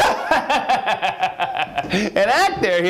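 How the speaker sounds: put-on high cackling old man's scoff; incredulous high-pitched character cackle; mocking laughter. A narrator's reading. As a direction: laugh derisively through the words. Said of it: "Mister Guggenheim laughed".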